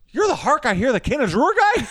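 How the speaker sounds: lightly acted starstruck question; a touch of mock disbelief; amazed recognition. Doorman recognizes the actor, mildly amazed.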